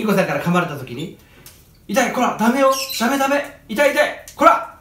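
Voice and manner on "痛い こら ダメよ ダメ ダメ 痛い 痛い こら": mock scolding. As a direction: scold the bird, getting heated. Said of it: "って怒っても". (怒って叱る真似)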